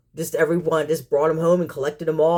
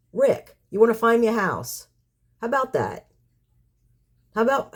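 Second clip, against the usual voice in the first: sarcasm; 4 semitones higher than usual. Real, not acted. Sarcastic demands to a critic.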